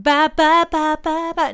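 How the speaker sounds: high, loud "ba ba" noises; loud mock babble. Woman answering imagined refusal, loud mock babble. Nonsense retort to hypothetical refusal.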